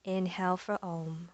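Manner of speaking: soft, unhurried yoga teacher voice; yoga breathing guidance. Acted. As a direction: guide them gently into the breath with long pauses. Leads breathing and centering practice.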